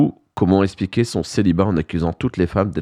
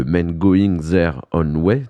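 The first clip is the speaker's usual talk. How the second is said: slow, clumsy English accent from a French speaker; bad English accent; much slower than usual. Real, not acted. Radio host reads an English term in a bad English accent. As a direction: spell out the English name slowly in a weak English accent. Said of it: "désolé, mon accent anglais est très mauvais".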